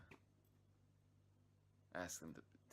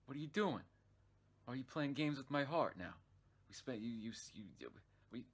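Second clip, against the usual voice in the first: loud, high, outraged yelling at her; jealous outburst; 5 semitones higher, 6 dB louder than usual. Retold or imitated. Retelling his angry shout at the girl who ditched him. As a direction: blow up at her, hurt and furious. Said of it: "and I'm like".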